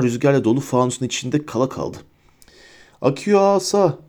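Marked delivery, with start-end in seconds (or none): 3.0-4.0 high-pitched summoning cry; shouted spell. A narrator's reading. Hermione summoning the wand for Harry, shouting. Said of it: "diye bağırdı Hermione".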